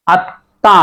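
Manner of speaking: আত্মা split as at-tã, t doubled; careful at, then ta for আত্মা; correct pronunciation. Shown as a demonstration. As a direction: hold the double t in আত্মা, m silent. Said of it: "এটা উচ্চারণ হবে".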